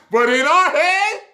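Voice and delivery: high, loud and insistent; emphatic. Real, not acted. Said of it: "emphatic repeat".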